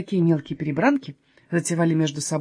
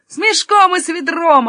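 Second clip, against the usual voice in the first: echoed louder and higher; eager echo; 8 semitones higher, 8 dB louder than usual. Acted. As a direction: chime in keenly, repeating it. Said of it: "отозвался Юнатан". (громко и восторженно вторя)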